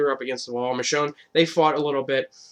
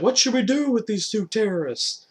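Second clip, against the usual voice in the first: rallying crowd; 9 semitones higher than usual. Retold or imitated. Governor asking the crowd what to do with the brothers, rousing. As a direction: work up the crowd.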